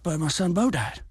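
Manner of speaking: put-on high, slow whiny old man; mocking the president's sob story, high and whiny; mocking Biden whine. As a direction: whimper it like a pitiful excuse. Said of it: "his response was like".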